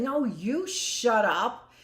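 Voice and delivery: put-on slow, drawn-out childish retort; mock comeback. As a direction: stretch it like a playground squabble. Acted quarrel, answering back.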